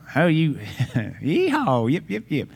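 hammed-up redneck hollering with a laugh; mock American redneck accent. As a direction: send up the redneck accent as foreigners would. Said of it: "They make fun of our accent".

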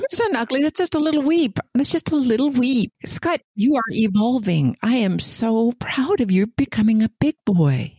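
high-pitched, playfully coddling reassurance; mock cooing. Cohost teasing a man who admitted crying, mock cooing. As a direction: coo at him as if praising a little boy.

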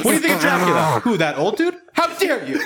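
high, campy diva voice; playful campy Dracula; sassy Dracula. Pretend. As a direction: camp outrage, laughing. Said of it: "Dracula's voice".

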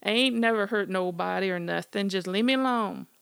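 loud high terrified yell; yelled as loud as he could. Acted. Smitty yells at the creature, loud terrified yell. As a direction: shout with everything you've got. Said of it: "yelled back as loud as he could".

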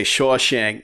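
a light Boston accent on the word. Shown as a demonstration. Podcaster explaining an excuse to say the word, Boston accent. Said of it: "in a Boston accent".

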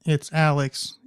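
put-on saying the name in a cheeky English accent. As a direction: introduce yourself like a Londoner. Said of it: "in an English accent".

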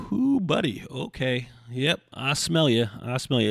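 high "Ooh", then slow amused "yep, I smell you"; speaking to his skunky dog, amused mock disgust; mock wrinkled-nose reaction. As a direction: tease the stinky dog, high then drawn out.

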